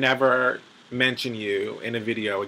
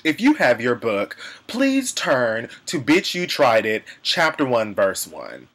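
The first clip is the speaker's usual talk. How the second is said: mock preacher; 4 dB louder than usual. Mock sermon reading scripture.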